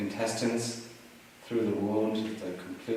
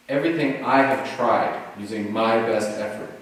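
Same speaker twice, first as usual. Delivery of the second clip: mock disheartened; 4 dB louder than usual. Hermit giving up on the Buddha after twelve years, disheartened. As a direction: voice a mild, acted despair in deliberate phrases. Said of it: "completely disheartened".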